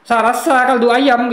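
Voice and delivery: slow, loud, high Madurese-accented line; hammed-up Madura accent, slow and loud. Shown as a demonstration. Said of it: "Contoh orang Madura deh".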